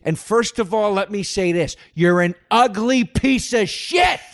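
high mock-therapist voice building to an insult; a fake therapist insulting the dreamer; worst therapist. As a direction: start sweet, then blast the insult. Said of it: "Eddie would go".

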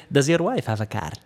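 put-on Arab-accented sales patter. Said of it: "I'm gonna try to talk to his accent".

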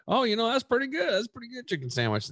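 high, hammed-up dad voice; imitating dad. Son imitates his dad praising the soy sandwich, high mock voice.

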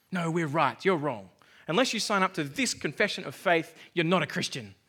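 firm, mock dogmatic verdict; mock arguing. Preacher mimics Reformed believers arguing over confessions, mock dogmatic arguing. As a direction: lay down the law, lightly parodying an arguer. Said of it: "absolute shockers in arguing".

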